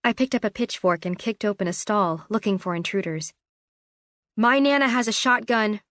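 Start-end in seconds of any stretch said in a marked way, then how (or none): 4.3-5.8 mild warning, a little higher and louder; a hint of a nervous threat; lightly voiced bluffing warning. A narrator's reading. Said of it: "I warned".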